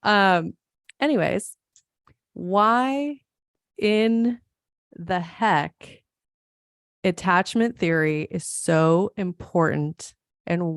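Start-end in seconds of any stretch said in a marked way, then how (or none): 2.3-6.0 "why", "in", "the heck" each as its own word, with pauses and "why" pitched high; drawn-out heck. Shown as a demonstration. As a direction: stretch "why in the heck" word by word, like a playful build-up. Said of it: "I could do a whole Montana accent".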